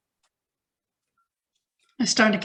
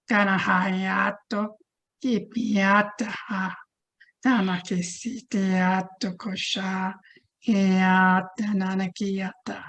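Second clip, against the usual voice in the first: light language; slower than usual. Acted. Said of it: "say it in my language, in another language".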